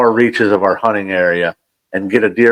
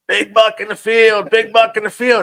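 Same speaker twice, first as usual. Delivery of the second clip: retold yelling; 11 semitones higher than usual. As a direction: stretch it out like calling across a field. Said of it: "Now my dad is yelling".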